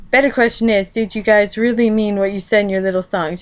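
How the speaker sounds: ordinary delivery, nothing marked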